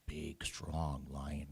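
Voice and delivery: slow whisper on big, strong lion. A narrator's reading. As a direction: breathe out "big, strong lion" slowly with weight on strong.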